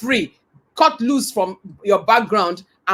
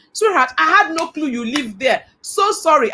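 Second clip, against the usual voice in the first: higher-pitched, pleading apology; retold apology; 5 semitones higher than usual. Boss apologising to her crying staff member, retold apology. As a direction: soothe with an earnest, lifted voice.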